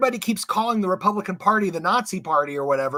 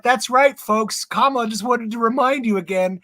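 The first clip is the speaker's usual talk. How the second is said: louder, hammed-up ad-voice announcer; mock announcer; 4 semitones higher, 4 dB louder than usual. Guest mocking a campaign ad, hammed-up announcer. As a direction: sell it like a cheesy TV spot.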